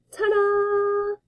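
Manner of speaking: high, ringing ta-da; a bow after a stunt, triumphant. Acted. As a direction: present yourself with a flourish. Lands with a bow.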